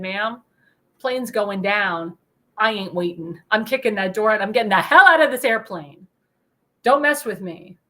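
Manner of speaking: tough retort. Retold or imitated. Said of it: "I said".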